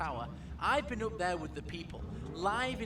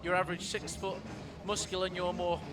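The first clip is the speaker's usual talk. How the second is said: showing off. Acted. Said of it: "showing off".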